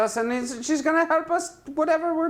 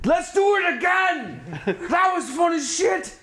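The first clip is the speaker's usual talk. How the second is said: excited laughing cheer; 5 semitones higher than usual. Real, not acted. Player cheers after escaping fight.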